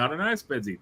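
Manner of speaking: a lightly voiced unsure answer; mock clueless Spedsy. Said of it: "let's pretend it's lots of Spedzies".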